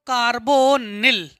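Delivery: कार्बोनिल drawn out in separate syllables; slow dictation. Shown as a demonstration. Teacher repeating कार्बोनिल for students, slow dictation with long syllables. Same term repeated slowly for writing.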